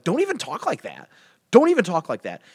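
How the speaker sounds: acted dismay at a friend; affronted protest. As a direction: push the accusation away, pitch lifted. Acted Jonathan protests friend's accusation.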